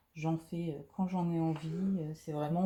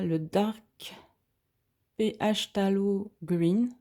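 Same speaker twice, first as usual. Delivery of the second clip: slow, louder English accent, spelling out the letters; clumsy English accent; 5 dB louder, slower than usual. Shown as a demonstration. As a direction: read "Dark P H Tallow Green" with an awkward English accent. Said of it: "que mon accent est à coucher par terre". (accent anglais maladroit et lent)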